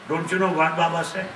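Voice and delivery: chuckling as he tells the student's answer; laughing through the punchline. Real, not acted. Teacher laughing as he tells students the chapati joke.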